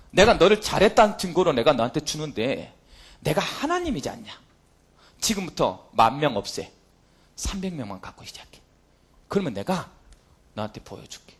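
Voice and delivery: a hint of God speaking low and quiet to Gideon. Preacher voicing God to Gideon, low and hushed. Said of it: "하나님 티를 냅니다".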